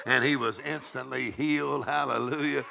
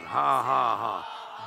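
deliberate ha-ha, falling away; imitated laughing; 3 semitones lower, much slower than usual. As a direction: act out a believer's defiant laugh. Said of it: "He said".

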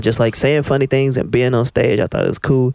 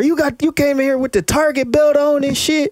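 mocking heckler voice. Mimicking heckler's taunt.

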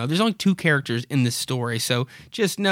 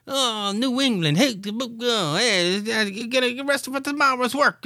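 hammed-up Boston-style accent, pitched higher; mock New England accent; 10 semitones higher than usual. Host redoing the wife's line in mock New England accent. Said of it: "just gonna sound like Bill Burr".

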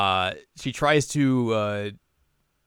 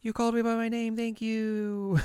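much higher, moved; touched Hanamaru; 13 semitones higher, 4 dB quieter than usual. Retold or imitated. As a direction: squeal of happy thanks. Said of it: "she calls her by her name".

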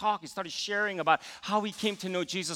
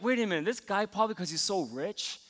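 inner grumbling; 6 dB quieter than usual. Retold or imitated. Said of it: "I started to think".

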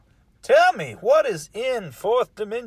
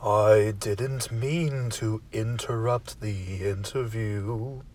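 much lower, slow, very formal servant; a stately low butler, taking his time; deep butler voice; 12 semitones lower, slower than usual. Acted. Butler offers a house drink.

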